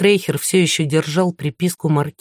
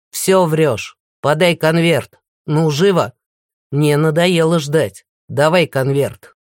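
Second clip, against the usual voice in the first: impatient villain demand. Acted.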